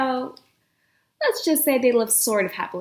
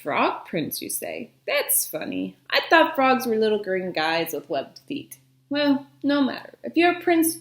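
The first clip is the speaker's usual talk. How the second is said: put-on old witch voice. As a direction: sound like a sly old witch.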